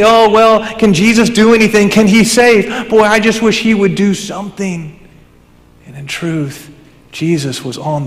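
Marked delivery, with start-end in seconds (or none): 0.0-5.0 lightly mocking skeptic, pitched up. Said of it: "quick to mock".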